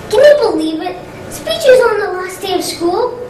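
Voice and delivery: incredulous complaint; indignant disbelief. Acted. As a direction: appeal to the listener, scandalised. Outraged at speeches on last day.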